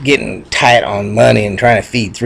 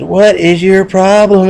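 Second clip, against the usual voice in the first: high, loud, drawn-out question; alarmed demand; 9 semitones higher, 5 dB louder than usual. Acted. Two bulls to the snorting little bull, alarmed.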